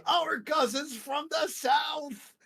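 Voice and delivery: high, slow, shouted proclamation; excited shout. Retold or imitated. Friend greeting the Israeli brothers, excited shout. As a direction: belt it out like a joyful announcement. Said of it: "And my friend goes".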